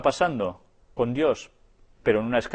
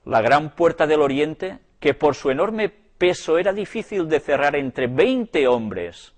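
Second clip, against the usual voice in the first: lectura declamada; 2 semitones higher, 4 dB louder than usual. A narrator's reading. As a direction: read aloud with solemn, emphatic weight. Lee en voz alta un libro. (lectura solemne y enfática)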